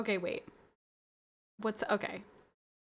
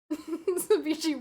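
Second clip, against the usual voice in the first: slow, much higher, stretched name through a laugh; laughing call-out; 7 semitones higher, 7 dB louder, much slower than usual. Real, not acted. Streamer laughing as she calls out a gifter, stretched and high. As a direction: draw the name out while laughing.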